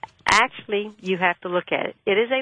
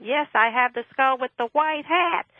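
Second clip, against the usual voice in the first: higher, slow mock yell down the phone; retold scream into phone; 7 semitones higher, slower than usual. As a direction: shout it so a deaf man hears, slowly. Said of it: "I screamed in the phone".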